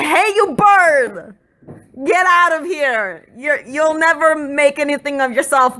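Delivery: shooing birds away with a hammed-up holler; mock yelling at birds. The speaker yelling at the birds to fly away, hammed-up shout. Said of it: "I look at the birds and I say".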